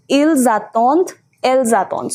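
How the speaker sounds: "ils attendent, elles attendent" linked with a z; with liaison. Shown as a demonstration. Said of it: "you have to pronounce this S".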